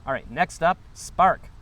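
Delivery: lightly acted stand-up announcer; comedy show host. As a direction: announce the next act, hitting SPARK. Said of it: "Imagine I'm at a comedy show and somebody's like".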